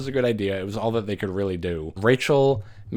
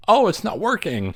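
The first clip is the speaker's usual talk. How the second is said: mock boyfriend; 10 semitones higher, 4 dB louder than usual. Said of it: "And he's like".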